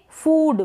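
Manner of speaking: फूड with a stretched oo; long oo in फूड. Shown as a demonstration. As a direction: hold the vowel of फूड long. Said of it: "फूड नहीं पढ़ेंगे".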